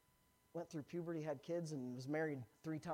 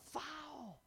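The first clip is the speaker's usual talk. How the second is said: retold umpire call; 9 semitones higher, 5 dB quieter than usual. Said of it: "He's yelling".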